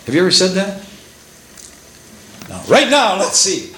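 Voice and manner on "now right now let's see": mock demanding.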